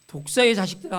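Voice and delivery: loud retold rebuke; imitated cry. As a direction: throw it out as a quoted shout. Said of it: "외칩니다".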